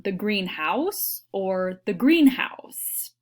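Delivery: whispered "greenhouse" twice, with the stress moved the second time; whispered stress contrast. Shown as a demonstration. A teacher whispering a stress demo to her class. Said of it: "It means something different".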